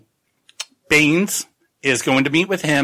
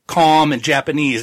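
nervous excited promise; 4 semitones higher than usual. Retold or imitated. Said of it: "He's like".

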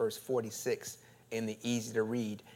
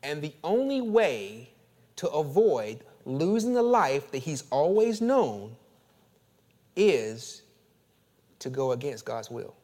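the only way pushed up louder, building; first, more forceful take; louder preaching push; 3 semitones higher, 6 dB louder than usual. Shown as a demonstration. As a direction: lean in and press it hard. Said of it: "Let me say it differently".

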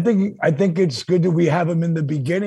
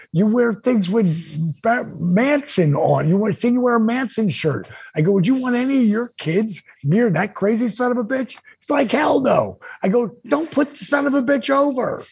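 higher, pushing hard; heated lecture; 5 semitones higher than usual. Retold or imitated. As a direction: hammer the point home to a friend. Lecturing friend, retold heatedly.

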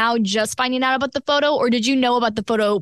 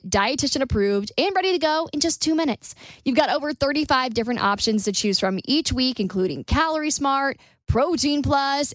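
smooth, bright sponsor read. Acted. Podcast host reading sponsor ads to listeners, smooth ad-read voice.

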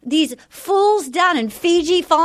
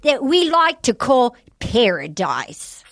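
put-on a light, unsure Australian accent; copying the TV host in Australian; Australian accent attempt. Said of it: "we try to do Australian accents".

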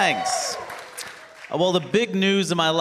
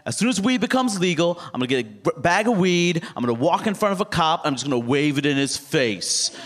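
mildly excited, boastful plan; lightly acted excitement; excited friend. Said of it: "was so excited about weed becoming legal".

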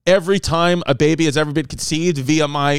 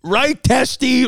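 slow correction; 8 semitones higher, much slower than usual. Shown as a demonstration. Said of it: "The right".

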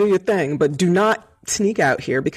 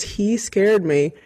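slow and heavy; 4 semitones higher, much slower than usual. Retold or imitated. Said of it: "as soon as I said the words".

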